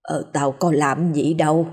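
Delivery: chữa ngượng. Acted. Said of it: "Bà cụ Thiều chữa ngượng".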